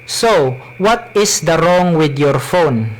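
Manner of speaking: heavy Cebuano-accented English. Shown as a demonstration. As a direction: read it in thick Bisaya English. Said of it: "I will speak in my Cebuano accent".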